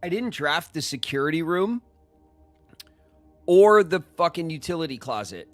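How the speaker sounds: high, loud exasperated rant; venting in real frustration; frustrated outburst. Real, not acted. Frustrated at game mistake.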